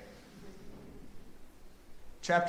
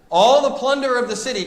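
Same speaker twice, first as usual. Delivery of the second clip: slightly louder and faster reading; a little louder; 9 semitones higher, 9 dB louder, faster than usual. Shown as a demonstration. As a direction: raise the volume a bit, quicker. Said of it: "I'll be a little louder".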